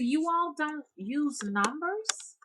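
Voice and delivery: high and very slow; incredulous. Retold or imitated. Teller asks the strange woman, stunned and drawn out. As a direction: drag out the disbelief.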